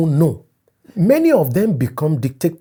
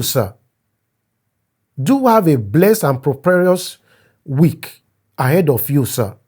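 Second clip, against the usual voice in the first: overly polite message read aloud; a hint of a fawning younger friend; reading a deferential message. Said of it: "Let me read how my friend approaches me".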